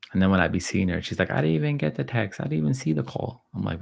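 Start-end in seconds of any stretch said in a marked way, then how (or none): 1.3-3.4 lightly mimicked teen excuse, pitched higher; a hint of a whiny teenage daughter; playful higher mock of a dodging teen; imitating daughter. Voicing daughter's excuse in story.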